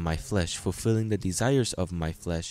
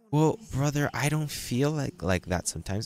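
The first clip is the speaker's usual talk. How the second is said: doubtful churchgoer; 6 semitones higher than usual. Retold or imitated. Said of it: "congregant doubting his worth".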